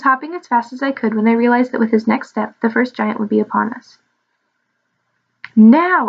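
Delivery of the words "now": higher, louder one-word cue; shout. A narrator's reading. Emma signals Edric to leap from the trench, shout. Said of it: "I shouted to Edric".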